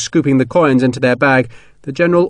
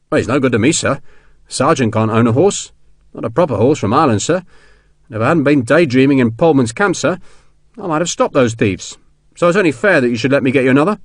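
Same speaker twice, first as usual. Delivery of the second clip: persuasive, slightly raised sergeant voice; a hint of a soldier pressing a gift; lightly voiced sergeant; 3 semitones higher than usual. Sergeant persuading colonel to take the horse, lightly voiced.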